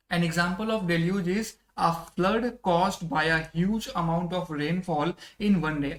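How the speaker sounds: very slow, word-by-word English reading; teacher dictating the definition slowly; slow dictation. Shown as a demonstration. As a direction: read it out slowly so students can follow. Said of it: "teacher reads English example slowly".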